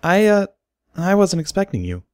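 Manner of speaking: put-on high, flustered young mare. A narrator's reading. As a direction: stammer it out, caught off guard. Derpy voiced by narrator.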